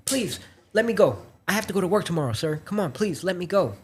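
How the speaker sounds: high pleading voice; imitating a desperate plea to a stranger; begging. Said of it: "she starts asking the dude".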